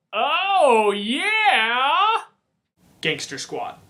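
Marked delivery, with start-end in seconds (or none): 0.1-2.2 Oh, yeah! thrown out high and loud, rising; sudden excited realization. Real, not acted. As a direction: burst out as if it just came back to you. Suddenly remembers Gangster Squad.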